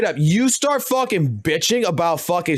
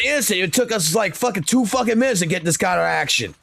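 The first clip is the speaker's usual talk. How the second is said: put-on higher-pitched cranky old man ranting; grumpy grandpa; 5 semitones higher than usual. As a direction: gripe like a grouchy grandpa scolding a kid. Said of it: "Grandpa, are you going to sleep today?".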